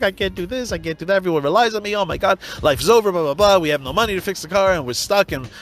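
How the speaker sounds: hammed-up despair, a flood of worries; mock panic. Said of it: "you're sitting there going".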